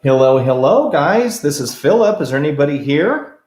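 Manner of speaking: loud, high call to the spirits. Real, not acted. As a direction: call out into the empty room. Calling out to spirits.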